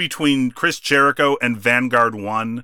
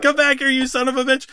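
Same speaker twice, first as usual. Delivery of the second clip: high, fast retold yell; mock screaming; 12 semitones higher, faster than usual. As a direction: shout it like chasing a thief. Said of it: "Jericho is screaming at Vanguard One".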